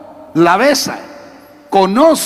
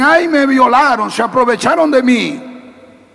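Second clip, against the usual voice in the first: mock lament; 4 semitones higher than usual. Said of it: "algunas dicen".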